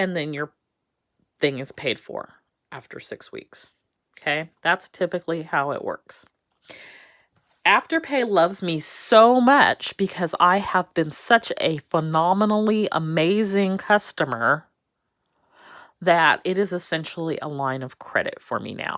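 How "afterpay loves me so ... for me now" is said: loud, high, mock-proud, boastful, heavily sarcastic. Describing being a customer of a pay-later service: sarcastic. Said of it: "if you don't hear the sarcasm in my voice right now".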